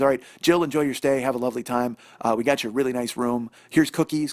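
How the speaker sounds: oversell the friendliness; the slimy clerk sending them off, loud and syrupy; smarmy clerk. Retold or imitated.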